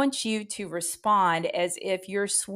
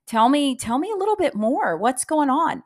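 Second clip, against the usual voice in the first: curious receptionist; 4 semitones higher, 5 dB louder than usual. Shown as a demonstration. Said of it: "you get their name and you say".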